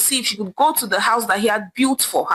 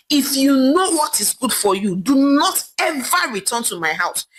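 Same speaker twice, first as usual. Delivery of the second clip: raised, mildly angry scolding; husband scolding his barren wife, mildly angry; 3 semitones higher than usual. Acted. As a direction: berate your wife, a touch heated. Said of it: "screamed angrily at her".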